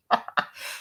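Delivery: brief, low-key chuckle; short laugh. Real, not acted. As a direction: let out a quick laugh. Reacting to a viewer's comment.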